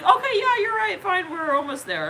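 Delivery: high, loud mock concession; exasperated giving in. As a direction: give in with a burst, easing off at the end. Acts someone giving in impatiently.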